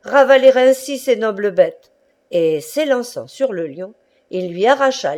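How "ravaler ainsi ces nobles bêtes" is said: higher, louder indignant shout; thunderous cry. Acted. Tartarin scolding the keepers for the lion, thunderous indignant shout. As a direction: thunder it out in outrage. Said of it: "cria-t-il d'une voix de tonnerre".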